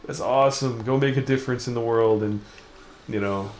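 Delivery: hammed-up fan cheer; imagined cheering fans. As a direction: play the adoring crowd, lightly.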